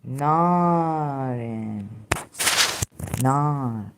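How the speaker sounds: "Narin" and "Nar" with long-held first vowel; drawn-out Arabic word. Shown as a demonstration. Teacher reads out the Arabic word for fire, drawn-out pronunciation. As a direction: sound out "Narin" and "Nar" slowly, stretching the vowels.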